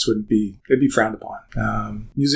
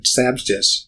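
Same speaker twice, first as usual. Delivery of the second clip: name said backwards, effortfully; backwards speech; 3 semitones higher, slower than usual. Shown as a demonstration. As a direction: sound out the reversed name carefully. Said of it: "Sebastian Broderick Lee".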